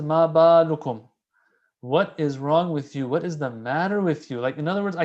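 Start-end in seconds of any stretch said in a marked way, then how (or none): 0.0-1.1 emphatic quote. Shown as a demonstration. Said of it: "Here, the Imam says".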